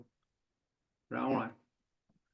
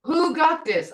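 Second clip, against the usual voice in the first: higher, louder question; child asking; 7 semitones higher, 4 dB louder than usual. Retold or imitated. Grandson asking grandma who got this, lightly voiced child. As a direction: ask like a curious kid. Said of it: "he'd say".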